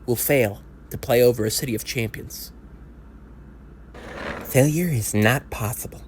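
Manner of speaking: grand, solemn orator building the case; rousing speech. Acted. Speaker addressing fans before the game, rousing oratory. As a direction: deliver it like a stirring pre-game address.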